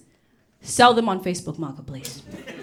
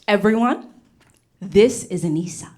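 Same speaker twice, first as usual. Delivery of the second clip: excited teacher; 3 semitones lower than usual. Retold or imitated. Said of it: "She was so excited. She's like".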